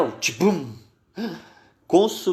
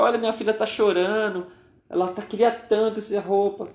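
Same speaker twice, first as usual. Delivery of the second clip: higher and a little fast, urging the seller; pleading mother; 6 semitones higher than usual. Acted. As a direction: plead that the child is crying. Mother begs, daughter crying. (mãe suplicando, mais aguda e apressada)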